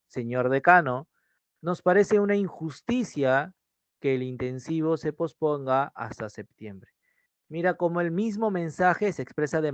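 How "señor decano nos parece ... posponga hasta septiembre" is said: formal address to the dean. Retold or imitated. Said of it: "cuando hablas con un docente y le dices".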